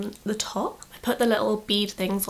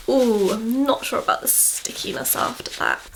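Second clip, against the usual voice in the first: whispering; 3 dB louder than usual. Real, not acted. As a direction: breathe it, no voice. Slime sounds, ASMR video.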